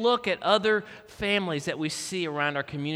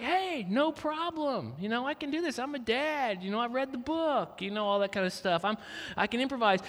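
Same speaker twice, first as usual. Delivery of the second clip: cocky dad; 5 semitones higher, 3 dB quieter than usual. Retold or imitated. Confident new dad before trouble.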